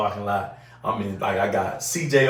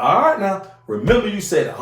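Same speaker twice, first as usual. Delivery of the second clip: warning; 8 semitones higher, 4 dB louder than usual. Retold or imitated. Threatening the grandpa.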